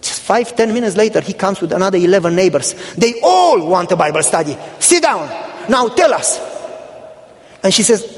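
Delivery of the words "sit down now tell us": retold order. Neighbor orders woman to teach.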